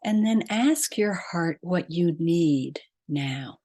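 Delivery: measured meditation guide, long pauses between phrases; guided meditation. Real, not acted. Podcast host leading listeners to breath and heart, guided meditation. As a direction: lead them inward phrase by phrase, leaving long silences.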